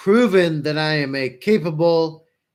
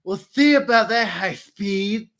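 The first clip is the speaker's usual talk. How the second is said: mocking Chief impression; 4 semitones higher than usual. Cohost mocks the Chief's parting threat to the armorer, taunting put-on voice. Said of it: "And he said".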